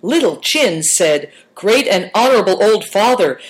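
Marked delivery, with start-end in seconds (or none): 1.6-3.4 mild clucking, a bit higher and louder; a chick clucking out a polite greeting. A narrator's reading. Apprentice clucking a greeting to his elder. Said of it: "he clucked when he said it".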